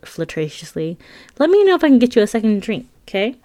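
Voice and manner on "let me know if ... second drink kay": bubbly waitress. Retold or imitated. Waitress flirting with customer.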